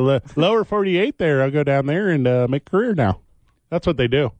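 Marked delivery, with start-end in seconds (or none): 0.4-3.2 lightly mocked Canadian accent; folksy mock-Canadian. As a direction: play a Canadian heading south to wrestle. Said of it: "you got a Canadian accent".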